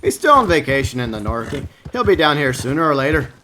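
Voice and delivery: badly faked northern accent; terrible northern accent. Streamer imitating the Trapper from up north, terrible northern accent. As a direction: have a go at a bad northern accent. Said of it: "I know that's a terrible accent".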